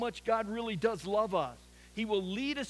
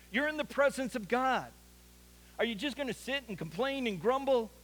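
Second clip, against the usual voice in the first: urgent divine challenge; 4 semitones higher than usual. Retold or imitated. God voiced confronting Elijah.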